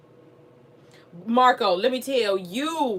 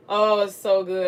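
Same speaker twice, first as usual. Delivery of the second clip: louder, slow, savoring delight; hyped and loud; 5 dB louder, slower than usual. Real, not acted. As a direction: gush about the episode. Hyped about the show.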